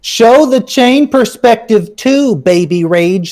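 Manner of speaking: a hint of a whiny crybaby, slow; drawn-out, lightly mocking brat whine. Streamer reads a viewer comment as a crybaby, lightly whining. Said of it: "his little fucking bitchy voice".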